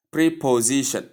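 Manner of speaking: "preposition" said with a long "pree" opening; wrong pronunciation. Shown as a demonstration. Teacher showing learners the common Nigerian mispronunciation, "preposition" said with "pree". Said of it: "the wrong way Nigerians pronounce it".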